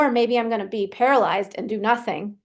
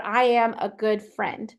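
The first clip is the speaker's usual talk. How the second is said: "I am a good friend" said slowly, ending down; firm statement; slower than usual. Shown as a demonstration. Coach showing the I am is a statement, firm falling end. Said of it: "It's a statement".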